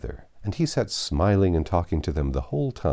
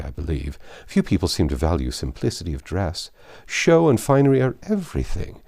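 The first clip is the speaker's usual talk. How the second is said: lightly voiced vain young bride, prattling; affected bride. A hint of a vain bride boasting to Emma about her gown. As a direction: preen over the gown with mock modesty.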